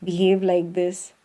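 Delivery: imitated enlightened person. Shown as a demonstration. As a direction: lightly put on saintly composure. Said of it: "enlightened person should walk like this".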